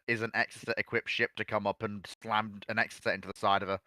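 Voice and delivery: ordinary talk, nothing marked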